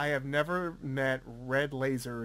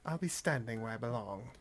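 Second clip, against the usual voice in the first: Liam Neeson impression; 3 semitones lower, 6 dB quieter than usual. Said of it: "Cast Liam Neeson everything".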